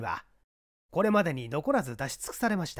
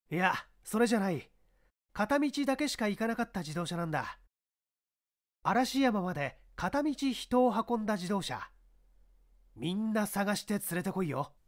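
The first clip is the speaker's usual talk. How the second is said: higher, firm police chief giving orders; commanding inspector; 6 semitones higher than usual. Acted. Inspector instructs his subordinate, firm and raised. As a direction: order the men about with authority.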